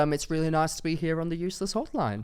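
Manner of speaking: light put-on Aussie accent, rising; hosting in a borrowed Australian accent; mock Australian accent. Shown as a demonstration. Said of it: "That's really good".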